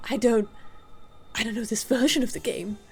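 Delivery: put-on old granny voice. Granny character voice.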